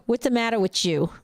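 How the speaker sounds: put-on a light Jersey accent on "What's the matter with you?". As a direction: tease in a mild New Jersey accent. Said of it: "My Jersey accent".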